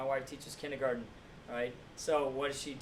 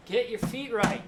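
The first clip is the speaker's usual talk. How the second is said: mock coach yell, higher and louder; 6 semitones higher, 7 dB louder than usual. Coach yelling at player about footwork, loud mock yell. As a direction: bark the correction at a player. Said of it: "The lady's yelling at you".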